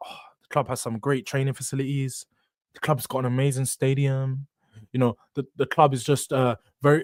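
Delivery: low, soft mock-praise; bland mimicry. Mimicking player's bland praise of club.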